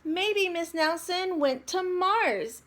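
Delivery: put-on kid. A narrator's reading. Kid voiced in story.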